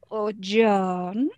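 absurdly sing-songy "Oh, JOHN", rising at the end; Lucy. Shown as a demonstration. Character teasing on stage, at the silliest and most sing-songy. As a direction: swoop through "John" until the name is the joke. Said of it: "say the name stupider and stupider".

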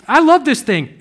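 high, loud gleeful exclamation; delighted infant. Acted. Infant loving the sweet paste, loud hammed-up delight. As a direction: play a baby thrilled by a taste. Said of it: "the infant would start".

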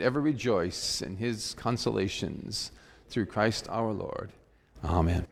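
solemn, even prayer voice fading at the close. Acted. Pastor leading the congregation in prayer, solemn prayer voice. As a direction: pray it reverently for the people.

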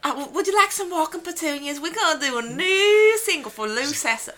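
mock a Southern band inviting you, pitched high; playful Southern accent imitating the band. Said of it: "with their southern accents".

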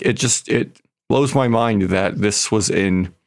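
ordinary delivery

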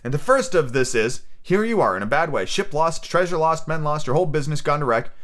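a touch of defiant excitement; excited defiance. Acted. Captive Jim confesses all to the pirates, mildly excited defiance. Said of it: "I was quite excited".

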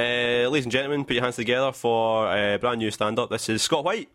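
comedy club MC introducing an act; grand entrance announcement. Pretend. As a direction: hype up the next comic. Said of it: "announce that I'm gonna come on".

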